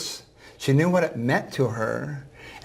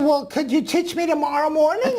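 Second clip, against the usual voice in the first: put-on old woman voice. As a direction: voice the ninety-four-year-old gently. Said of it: "I'm gonna use a voice that s-, sounds like her".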